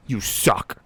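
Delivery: lightly voiced jeering goblin; a cackle, then a low-key goblin taunt. Game master as goblin mocking the missed swing, jeering. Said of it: "as he says".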